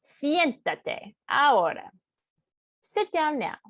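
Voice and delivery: "Siéntate ahora" said slowly and firmly as an order; a slow, firm order to sit down; firm command. Shown as a demonstration. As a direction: tell them to sit, no arguing. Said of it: "Again, it could be polite".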